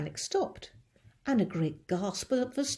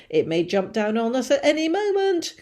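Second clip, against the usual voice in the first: alarmed warning; 5 semitones higher, 8 dB louder than usual. Acted. Chief warning his men.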